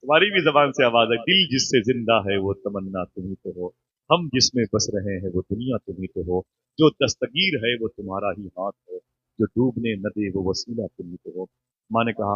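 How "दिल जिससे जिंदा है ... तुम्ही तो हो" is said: soft, lyrical devotional recital; poem recitation. Acted. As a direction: recite the verse gently and low. Recites the couplet again softly. (नरम, भावपूर्ण शेर-ख़्वानी)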